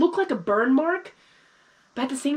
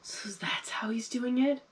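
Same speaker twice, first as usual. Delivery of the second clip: whispering; 2 semitones higher, 7 dB quieter, slower than usual. Real, not acted. Stunned realization while watching.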